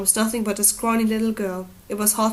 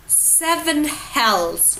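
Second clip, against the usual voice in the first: slow, heavy oath; a weary king swearing at the quarrel; swore; 7 semitones higher, much slower than usual. A narrator's reading. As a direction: curse under the weight of it. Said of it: "Robert swore".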